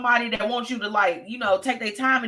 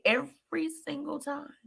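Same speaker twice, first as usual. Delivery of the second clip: unvoiced emphatic whisper; 5 semitones higher, 7 dB quieter than usual. Real, not acted. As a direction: hiss it out as a pointed aside. Emphatic aside.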